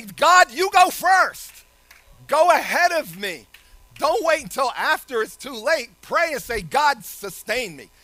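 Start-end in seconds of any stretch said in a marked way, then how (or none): 0.0-3.5 loud prayer. Pretend. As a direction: call out to God at full force. Preacher voices a loud prayer.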